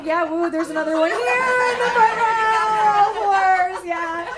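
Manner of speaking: high and loud, calling out to the crowd; hyped woo. Real, not acted. Comic calling out to a whooping fan in the front row, high and loud. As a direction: cheer back at the front row. Hyping a cheering audience member.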